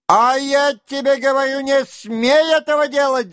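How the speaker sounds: high, loud forbidding yell; loud shout. A narrator's reading. Denisov shouting to stop Rostov leaving. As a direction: shout him down hard. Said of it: "закричал Денисов".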